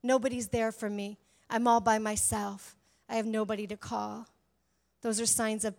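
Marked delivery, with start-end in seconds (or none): 0.0-4.3 mock lonely. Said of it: "instead I'm relationally barren".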